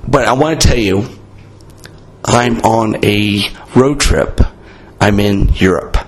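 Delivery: raspy, worn-out voice; lost voice, hoarse and rough. Real, not acted. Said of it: "I have no voice".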